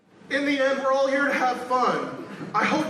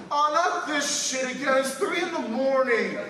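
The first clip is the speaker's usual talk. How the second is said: annoyed; 7 semitones higher than usual. Retold or imitated. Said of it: "I heard over the speakerphone".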